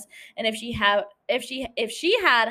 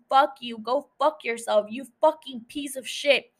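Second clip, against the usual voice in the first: retold scream; 3 semitones higher than usual. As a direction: act out a fed-up wife's tirade without really screaming. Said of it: "and she screams".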